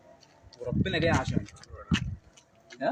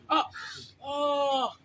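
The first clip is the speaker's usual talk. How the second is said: short yelp, then a longer high moan; cry of pain; 9 semitones higher, much slower than usual. Real, not acted. Host hit by the man he is helping, pained cry.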